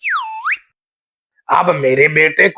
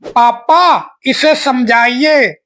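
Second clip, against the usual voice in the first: higher, whining appeal; whiny complaint; 4 semitones higher than usual. Acted. Boy tattling to his father about the copycat, whiny. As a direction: tattle to papa.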